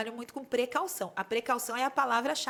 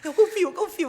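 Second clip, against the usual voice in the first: laughing bride; 6 semitones higher, 9 dB louder than usual. Retold or imitated. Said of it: "bride answering, laughing".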